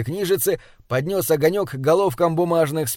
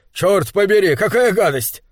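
higher-pitched outburst of disgust; indignant exclamation; 4 semitones higher, 4 dB louder than usual. Acted. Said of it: "воскликнул Руди". (возмущённое восклицание с отвращением)

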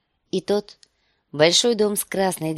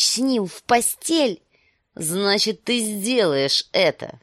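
put-on menacing older brother; 3 semitones higher, 4 dB louder than usual. Viserys voiced menacing sister.

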